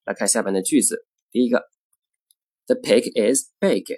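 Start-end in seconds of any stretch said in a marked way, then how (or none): 2.7-3.9 slow "The pig is big", "pig" and "big" held longer; lengthened sentence stress. Shown as a demonstration. Teacher demonstrating sentence stress, slowly, "pig" and "big" lengthened. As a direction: stretch the stressed "pig" and "big", keep "The" short. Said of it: "句子重音在哪里".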